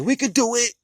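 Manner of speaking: high squeaky hopeful voice; mock kid voice, high pitched; wishful toy voice. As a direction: squeak it like a kid forcing toys. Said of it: "you be like".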